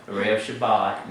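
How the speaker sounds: Erev Shabbat as eh-REV shabbat; misplaced stress. Shown as a demonstration. Teacher demonstrates the mistake, second-syllable stress in Erev Shabbat. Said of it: "no, it's not Erev Shabbat".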